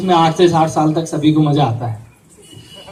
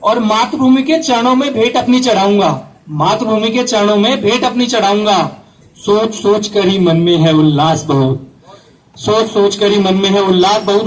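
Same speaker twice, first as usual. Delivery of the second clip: raised, declaimed verse; poem recitation; 3 semitones higher than usual. Acted. Recites soldier's vow in verse. (ऊँचे सुर में कविता पाठ)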